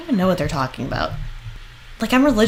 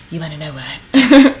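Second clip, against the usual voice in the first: lower, slow mock mom voice; imitating the mother; 5 semitones lower, 6 dB louder than usual. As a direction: ham up the eager mother, slowly. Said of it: "And then she's just like".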